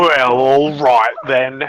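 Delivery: put-on slow, drawn-out Vogon accent. Manager questions the surprise inspectors, slow Vogon accent. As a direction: draw the vowels right out in a Vogon accent. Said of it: "Uh, Vogon".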